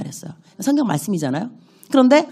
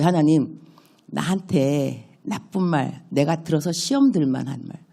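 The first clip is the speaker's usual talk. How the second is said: soft playful prayer. Shown as a demonstration. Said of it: "나 이렇게 기도해".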